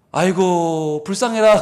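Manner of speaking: slow drawn-out pitying sigh; gentle exaggerated pity; mock pity. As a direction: sigh over him kindly.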